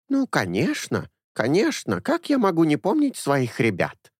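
put-on a fussy old nanny doting on her boys; old woman. A narrator's reading. Old woman Anessa speaks.

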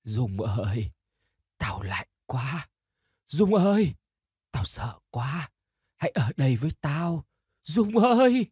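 hushed, distant sorrowful ghost moan; a cold spirit whispering for company; mournful ghost voice. Acted. Trúc's ghost embracing Dung, sad and chilling. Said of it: "vừa khóc vừa nói với cả giọng u buồn".

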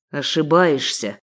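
slow, low, smug male voice; a sheikh sneering at her; lightly voiced mocking captor; smug scoff. A narrator's reading. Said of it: "хмыкнул Зейн".

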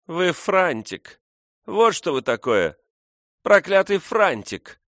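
high, loud, slow spat-out insult; scornful insult. A narrator's reading. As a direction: fling the insult at him. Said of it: "бросила ему дева".

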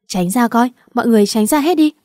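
loud, fast barked order to move; shouting to clear crowd. Acted. Henchman ordering the crowd aside, loud and fast.

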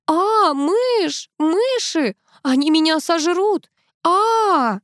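high, frantic cries of terror; panicked. A narrator's reading. Antonina panics, shrieking about the mice. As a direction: she is sure the mice will eat her.

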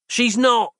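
a lightly voiced angry brother; mild growl of a young boy. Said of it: "growled the girl's brother".

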